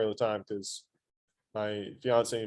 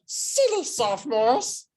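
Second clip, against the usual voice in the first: high, drawn-out creature voice; Smeagol; 11 semitones higher, slower than usual. Acted. Teacher shows class how voices change, Smeagol impression. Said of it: "I can sound like Smeagol".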